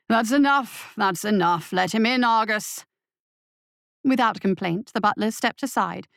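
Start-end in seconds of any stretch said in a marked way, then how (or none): 0.1-0.9 raised, higher call of "That's enough"; commanding call. Acted. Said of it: "A new voice echoed". 1.7-2.8 commanding host voice. Acted. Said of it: "A new voice echoed".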